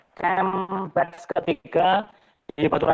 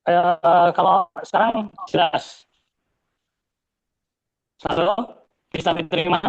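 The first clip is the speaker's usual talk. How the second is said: choppy call audio; breaking up over the line; bad connection. Real, not acted. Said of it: "Masih putus-putus".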